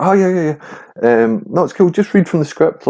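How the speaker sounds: high-pitched mimicked director; imitated breezy reassurance. Retells director breezily reassuring him.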